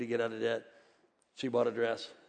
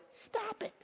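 mirror scold; 12 dB quieter than usual. Pretend. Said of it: "look at yourself in the mirror and go".

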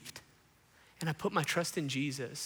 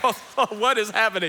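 high, loud mock bewilderment; exaggerated baffled cry; Santos; 5 semitones higher, 10 dB louder than usual. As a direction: ask it as a freaked-out bystander. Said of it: "And Santos is like".

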